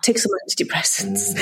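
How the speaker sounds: offhand half-whispered brush-off; dismissive doctor. Retold or imitated. Doctor brushing off an anxious patient, hushed and dismissive. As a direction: wave her away under your breath. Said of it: "she was just very dismissive".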